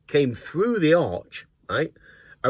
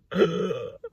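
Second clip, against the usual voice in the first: gasp; 5 semitones higher, 5 dB quieter than usual. Retold or imitated. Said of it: "Well, I went".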